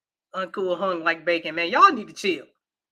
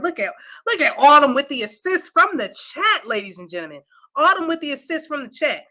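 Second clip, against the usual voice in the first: higher-pitched hype announcer call; playful ringside-style shout-out; mock announcer; 8 semitones higher, 5 dB louder than usual. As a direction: announce the assist like a big play. Mock announcing a chat member's assist.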